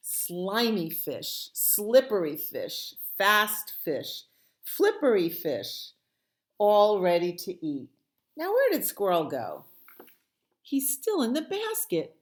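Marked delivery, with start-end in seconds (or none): 0.1-7.9 hungry relish. Acted. Bear lists fish hungrily.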